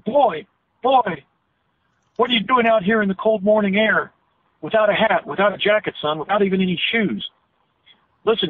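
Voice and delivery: lightly voiced old man hailing a boy; crotchety old man calling out. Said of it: "And he yelled to me as he ambled".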